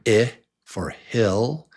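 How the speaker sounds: short I sound in hill, slow and clear; short vowel i. Shown as a demonstration. Teacher modelling the short I for the class. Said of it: "on the left is the short vowel sound".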